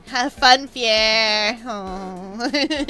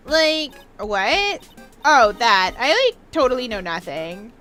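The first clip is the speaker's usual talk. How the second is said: put-on Valley Girl accent; 3 semitones lower, 3 dB louder than usual. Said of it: "do a Valley Girl accent".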